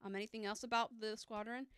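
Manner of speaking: ordinary talk, nothing marked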